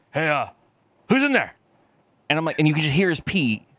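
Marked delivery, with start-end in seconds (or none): 0.1-1.6 calling out. Retold or imitated. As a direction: call out to find who's there. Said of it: "and then he's like".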